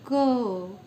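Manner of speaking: क said loud with a clear अ after it; loud consonant demo. Shown as a demonstration. Teacher showing students that क carries अ: loud क. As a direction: sound क sharply so the अ rings.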